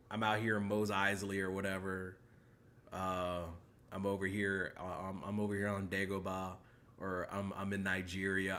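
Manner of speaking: low, soft lazy imitation of a commenter; a light parody of fan comments; mock fan comment. Reading out fan comments in a mumbled mock voice. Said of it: "they're like".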